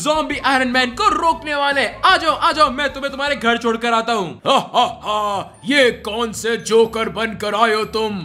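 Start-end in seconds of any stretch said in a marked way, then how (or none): 4.5-8.1 deep gloating zombie villain. Acted. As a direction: gloat like an evil zombie boss. Villain Zombie Iron Man speaks.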